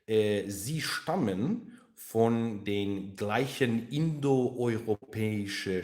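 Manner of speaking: hammed-up German accent with drawn-out words; exaggerated German accent. Shown as a demonstration. Streamer explaining related languages to viewers, exaggerated German accent. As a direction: lay the German accent on thick. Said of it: "I'm just exaggerating".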